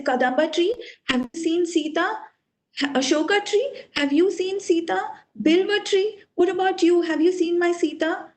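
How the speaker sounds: lightly acted desperate searching; losing composure. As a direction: plead with each tree in turn. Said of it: "he loses his composure".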